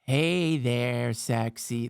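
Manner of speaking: low, lightly played seductive greeting; failed seductive. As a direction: try to flirt in a low voice. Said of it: "This one's sexy".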